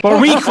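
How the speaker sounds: Boricua tried high and unsure, R not rolled; Boricua, struggling with the R; fumbled attempt. Shown as a demonstration. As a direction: stumble over Boricua, rising like a question. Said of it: "I tried, I've been practicing".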